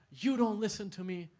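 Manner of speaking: mock yell of a child at his mother; retold yelling. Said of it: "He's yelling at the mom".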